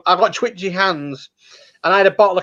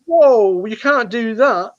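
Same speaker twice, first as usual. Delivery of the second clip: retold gasp at Gordon dunking the kid; shocked protest; 4 semitones higher, much slower than usual. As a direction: object in mock shock, slowly. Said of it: "I was like".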